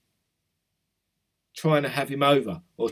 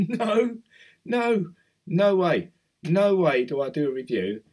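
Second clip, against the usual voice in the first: emphatic refusal; 6 semitones higher, 5 dB louder, slower than usual. Real, not acted. Refusing unpaid review requests.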